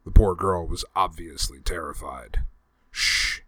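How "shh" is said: hushing. Acted. Hushing a scared girl.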